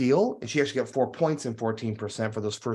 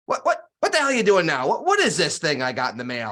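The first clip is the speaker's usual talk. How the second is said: put-on gruff, exasperated old friend, higher and louder; curmudgeon friend; 3 semitones higher, 4 dB louder than usual. Grumpy old investor friend phoning, a light gruff mock. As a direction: play the grumpy friend snapping down the phone. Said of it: "curmudgeon-y at times".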